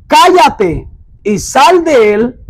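slow, stern rebuke to a demon. Retold or imitated. Jesus rebuking the demon in the synagogue, slow and stern. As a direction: order it out slowly and firmly. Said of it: "Jesús le reprendió diciendo".

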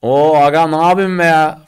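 a lightly voiced Thracian dialect. Teacher mimicking a local from Thrace, light Thracian dialect. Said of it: "Düşün bir Trakyalısın sen".

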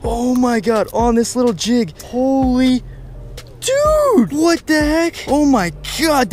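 giddy high-pitched excitement, real; thrilled yelping. Real, not acted. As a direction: go way up, overjoyed at a huge catch. Landing a big bass, thrilled.

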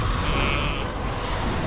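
short mock snake cry; snake noise imitation. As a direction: imitate how every snake sounds. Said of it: "They sound like".

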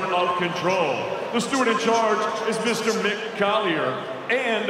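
formal ring announcer, building up. Real, not acted. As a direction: announce it to the arena.

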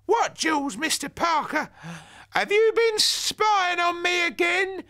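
high, loud granny shout; demanding. Acted. Granny confronting the snooping neighbour, high and loud. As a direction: round on him, loud. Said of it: "demanded Granny".

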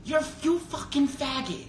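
mock-furious, stretched out high; retold anger. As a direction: imitate someone fuming, without shouting. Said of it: "He was so mad".

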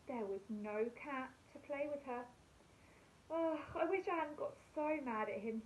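put-on gentle storybook reading for young children; bedtime story narration. A narrator's reading. Teacher reading a bedtime story to her class, gentle storytelling. Reads a bedtime picture book.

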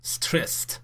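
stressed ending in a crisp t, /strest/; "Stressed" as one syllable ending in t. Shown as a demonstration. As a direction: say "Stressed" with a final t sound, not "id". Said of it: "این ایدی رو ما ت تلفظ کنیم".

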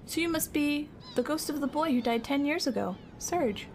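reading game dialogue aloud, a touch of character; mildly acted line; voiced game text; lightly voiced game character.

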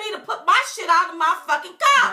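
mildly indignant acted comeback; defiant retelling. Host says what the driver wanted to say, defiant. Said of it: "That's how she wanted to say it".

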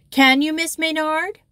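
high, loud, innocent surprise; wide-eyed surprise. Acted. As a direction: ask in wide-eyed wonder. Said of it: "said Elisaveta, wide-eyed".

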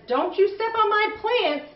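mock stern warning, pitched high; playful grandpa scolding. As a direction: wag a finger at the kids. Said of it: "Grandpa says".

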